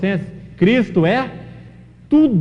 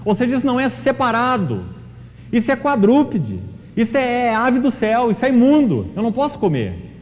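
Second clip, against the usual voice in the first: higher-pitched mock protest, as Peter refusing; 6 semitones higher than usual. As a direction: plead against the unclean food in a raised voice. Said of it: "como se Pedro falasse assim". (Pedro protestando, voz mais aguda)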